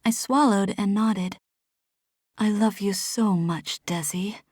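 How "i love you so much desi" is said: a gentle mom, close and hushed; mother's voice. Acted.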